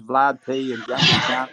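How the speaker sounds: slow, laughing mockery; mocking laugh-shout; laughing jeer. Real, not acted. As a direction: laugh out the names as a jibe.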